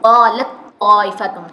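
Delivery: قالت طائفۃ slow and loud, the ت swallowed into a heavy doubled ط; ta merged into toe. Shown as a demonstration. Teacher showing students the merged قالت طائفۃ. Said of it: "تا کا قا میں ہوتا ہے".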